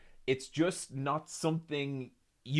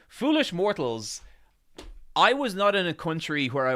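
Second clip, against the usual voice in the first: dark lord; 7 semitones higher, 6 dB louder than usual. Acted. Streamer answers chat theatrically.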